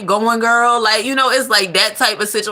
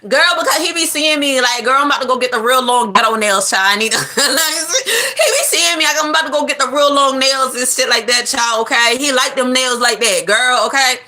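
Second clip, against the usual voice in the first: Keisha voice; 3 semitones higher than usual. Acted. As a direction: play the deluded girlfriend gushing. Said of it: "I'm doing the whole scenario".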